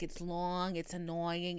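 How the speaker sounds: low Boston drawn vowels; lightly shown Boston accent. Shown as a demonstration. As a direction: lean into the Boston vowel on "long". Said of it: "it's a very Boston thing".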